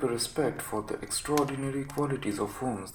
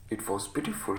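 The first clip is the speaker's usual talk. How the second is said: ordinary delivery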